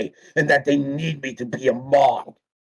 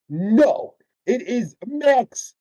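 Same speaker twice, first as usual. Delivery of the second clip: slow, higher mocking quote; mocking Tonio; 7 semitones higher, much slower than usual. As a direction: mimic him sneering, lightly. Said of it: "That's pretty much what he said".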